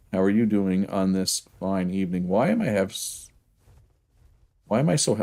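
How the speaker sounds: ordinary talk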